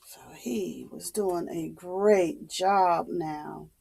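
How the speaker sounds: soft whispered aside. A narrator's reading. Storyteller praising the boy to the child, whispered. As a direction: lean in and whisper it.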